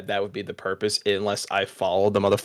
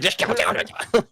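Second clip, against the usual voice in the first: whispering. Retold or imitated. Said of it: "You just walk to the orphanage like".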